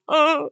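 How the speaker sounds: high, brief mock whimper; imitated crying whimper. Reader voicing the crying woman, imitated whimper. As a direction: let out a small high-pitched cry. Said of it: "and she's crying".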